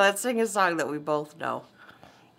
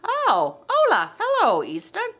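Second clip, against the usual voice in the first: excited praise; 11 semitones higher than usual. Real, not acted. Mom cheers her child's Spanish.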